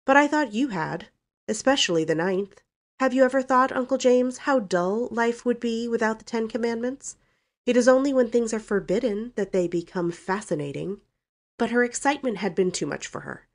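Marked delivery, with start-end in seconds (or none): 0.0-11.0 put-on higher-pitched, impudent young woman; defiant Valancy. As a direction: needle a stern uncle, pitched up. Valancy needles Uncle James.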